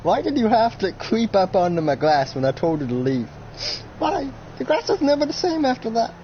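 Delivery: high, wailing mock grief; hammed-up anguish. Old man mourns his damaged glass, hammed-up anguish. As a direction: lament it in a high, tearful whine, slowing at the end.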